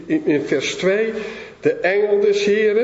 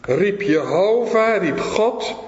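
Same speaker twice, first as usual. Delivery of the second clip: ordinary talk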